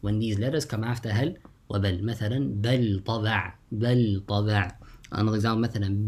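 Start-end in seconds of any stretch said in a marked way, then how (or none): 2.6-4.7 بل with a clear, held ل before طبع; izhar. Shown as a demonstration. Teacher gives students an example, izhar. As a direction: sound the ل of بل separately from ط. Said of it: "recite with إظهار".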